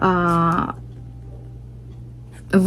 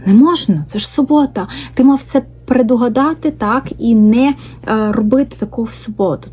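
strict Pharisee; 3 semitones higher than usual. Acted. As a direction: scold like a rigid Pharisee, half mocking. Mocking strict Pharisee sabbath rule.

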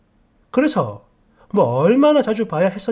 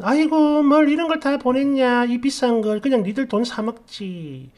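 lightly voiced fussing mother, starting pitched up; a hint of a fussing mom; mom's fond protest; 4 semitones higher than usual. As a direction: mildly act out a mother's token scolding.

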